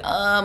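mild, drawn-out imitated moan; little moan. Woman recalling early cramps, moaning a little. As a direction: let out a small retold groan. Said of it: "moaning a little".

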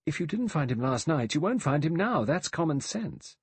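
high, insistent reasoning; urgent. A narrator's reading. Vera argues against searching further, urgent. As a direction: argue it urgently, slowing to land the end. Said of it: "Vera said urgently".

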